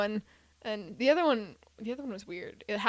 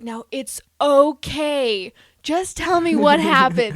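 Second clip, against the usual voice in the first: soothing officer; 4 semitones higher, 9 dB louder, slower than usual. Retold or imitated. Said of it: "And he's just like".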